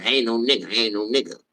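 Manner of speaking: "nigga" ending in "a", never "er"; pronounced with an A. Shown as a demonstration. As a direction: say "nigga" with an open final a. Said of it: "I say with an A, not an E R".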